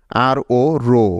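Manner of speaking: "আর ও রো" ending on a long, held o; long vowel. Shown as a demonstration. Teacher showing the next syllable, long o in "রো" of "আর ও রো". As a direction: spell it out, then stretch the o of "রো". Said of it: "ভাওয়েলটার long sound হয়েছে".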